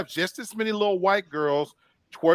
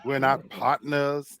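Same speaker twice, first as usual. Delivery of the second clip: slow firm warning; 3 dB quieter, slower than usual. Retold or imitated.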